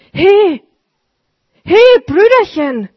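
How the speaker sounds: loud, high call across the street. Acted. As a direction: hail the old sweeper from the door. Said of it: "rief er".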